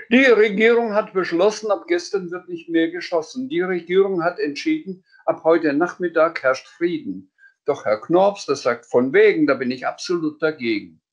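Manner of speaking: high, rhyming newsreader voice; a child playing newsreader, high and sing-song; mock news report. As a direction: announce it like a cheeky radio newsreader. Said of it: "die neuesten Nachrichten vortragen".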